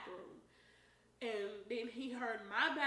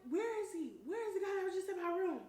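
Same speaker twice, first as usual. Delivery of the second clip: angry demand; 9 semitones higher, 6 dB louder, faster than usual. Retold or imitated. Angry search through house.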